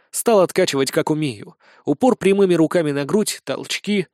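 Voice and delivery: ordinary delivery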